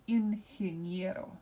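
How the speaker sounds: ingeniero with the weight on "nie"; slow, careful Spanish ingeniero, stressing "nie"; stress on next-to-last syllable. Shown as a demonstration. Teacher models the word for class, ingeniero stressed next to last. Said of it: "make sure we emphasize this".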